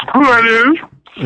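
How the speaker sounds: sassy caller. Acted. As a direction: ask it slow and sassy. Phone caller asking who.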